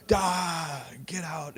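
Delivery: high rushed mock panic; panicked. Scrambling off the wrong train in mock panic.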